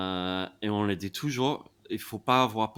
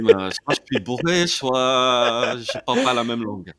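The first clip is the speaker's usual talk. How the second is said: laughing retold quote; 3 semitones higher, 7 dB louder than usual. Friend retelling a confused guy's words, laughing. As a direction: laugh through the drunk-or-foreign punchline. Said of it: "Il dit".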